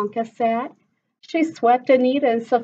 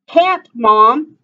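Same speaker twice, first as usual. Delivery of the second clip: sighing; 4 semitones higher, 10 dB louder than usual. Acted. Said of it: "Sophia sighed".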